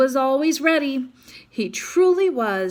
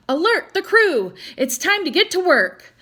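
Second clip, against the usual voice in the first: chief's order; 6 semitones higher, 4 dB louder than usual. A narrator's reading.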